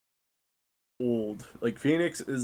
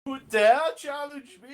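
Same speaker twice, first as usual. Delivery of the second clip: much higher, louder, far-off AI voice; booming echoing villain monologue; 14 semitones higher, 5 dB louder than usual. Acted. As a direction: boom it out like a wrathful ship AI. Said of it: "you hear Phoenix, like".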